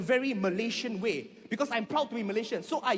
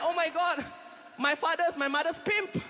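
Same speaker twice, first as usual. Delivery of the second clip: mock shocked realisation; 4 semitones higher than usual. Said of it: "I'm like".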